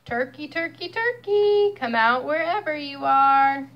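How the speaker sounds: calling farmer. Acted. Farmer calling for the turkey, sing-song. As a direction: call out like hunting for the turkey.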